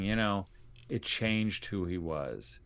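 understated choked-up retelling, slow and soft at the end; barely able to talk. Retold or imitated. Mother grieving the change in her oldest son, subdued. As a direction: let it sink quietly, lightly imitating her struggle. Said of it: "now she can barely talk".

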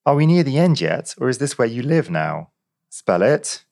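high, indignant questioning; fed-up policeman losing patience; exasperated constable. A narrator's reading. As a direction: demand it with pitch pushed up. Policeman exasperated by absurd names.

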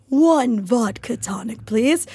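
slow, breathy whispered theatrical order; theater-kid order. Retold or imitated. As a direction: hush it out slowly like a dramatic diva. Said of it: "that is how theater people order drinks".

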